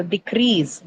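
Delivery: decrease stressed on its second syllable. Shown as a demonstration. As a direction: say decrease as de-CREASE, falling at the end. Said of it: "not decrease".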